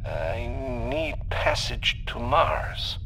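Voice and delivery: high, slow, tentative plea over a comm; hesitate, then slowly make the request; hesitant. A narrator's reading. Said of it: "hesitated again, more briefly this time".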